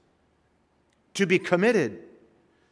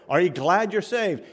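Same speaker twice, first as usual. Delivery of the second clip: "glad" and "saved" punched, pitch raised; stress on GLAD and SAVED; 4 semitones higher, 3 dB louder than usual. Shown as a demonstration. Preacher asks congregation if they are saved, stressing GLAD and SAVED. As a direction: lean hard on "glad" and on "saved". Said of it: "Emphasize the word saved, but also emphasize the word glad".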